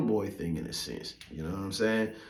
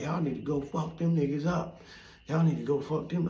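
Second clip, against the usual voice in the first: higher-pitched mock egging-on; a hint of a goading older gangster, pitched up; imitated instigator; 6 semitones higher than usual. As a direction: lightly act out an old head urging on youngsters. Older man egging on youngsters.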